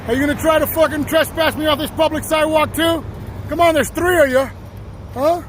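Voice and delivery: taunting. Real, not acted. Man heckling police over public sidewalk, taunting. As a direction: goad them with pushy questions.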